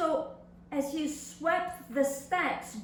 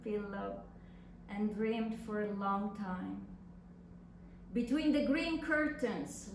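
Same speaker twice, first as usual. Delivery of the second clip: reading a love letter. Acted. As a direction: read it like a tender secret letter. Reads second letter aloud.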